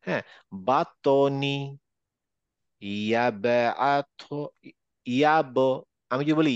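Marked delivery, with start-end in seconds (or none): 0.7-5.6 "বাতনি" and "ইয়াবআথ" drawn out, ত and ব bouncing; qalqalah echo. Shown as a demonstration. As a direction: release ত in "বাতনি" and ব in "ইয়াব" into short vowels. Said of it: "এরকম একটা automatically হয়ে যাবে".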